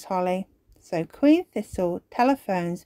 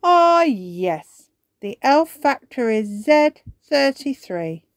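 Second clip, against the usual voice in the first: put-on wise old elf; 6 semitones higher, 6 dB louder, slower than usual. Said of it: "explains the wise old elf".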